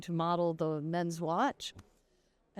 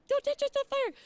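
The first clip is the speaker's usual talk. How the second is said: high, urgent cry of alarm; frantic warning; much faster than usual. Retold or imitated. Wife warning her husband off the burning bottle, high and frantic. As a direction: stop him before he burns himself. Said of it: "And I'm like".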